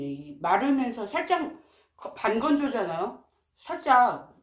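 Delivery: chewing while talking; speaking around food; mouth full. Real, not acted. Seen 1: cheeks full, jaw working through all frames; the eel itself is not visible.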